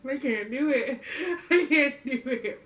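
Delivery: giggly real protest; laughing refusal. Real, not acted. Taster balks at the jelly texture, laughing refusal. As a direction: give up through helpless laughter.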